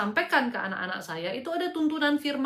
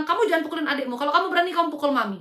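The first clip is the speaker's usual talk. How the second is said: retold scolding, raised a little in pitch; annoyed mother; 3 semitones higher, 3 dB louder, faster than usual. Mother daring her child who hit a sibling, mildly cross. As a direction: re-enact a mildly cross maternal challenge. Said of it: "Saya kesel sama dia".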